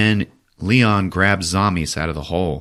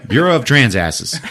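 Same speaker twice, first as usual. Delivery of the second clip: laughing repeat; 4 semitones higher, 3 dB louder than usual. Shown as a demonstration. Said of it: "I don't know what B T A means".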